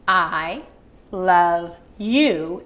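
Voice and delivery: slow, heartfelt with pauses; mean every word; sincere. Shown as a demonstration. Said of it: "the way to express the sincere emotion".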